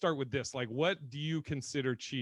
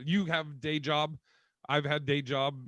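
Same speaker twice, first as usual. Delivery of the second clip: caveman talk; slower than usual. Shown as a demonstration. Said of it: "talking like a caveman".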